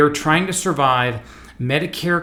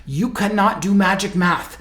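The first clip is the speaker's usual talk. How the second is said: put-on Vietnamese accent; 5 semitones higher, 3 dB louder than usual. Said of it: "he had this Vietnamese accent".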